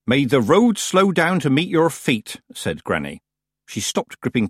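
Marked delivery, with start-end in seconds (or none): 0.1-2.4 slow, raised, measured blessing; deliberate formal courtesy; ceremonial farewell. A narrator's reading. Granny parts from her rival, ceremonially.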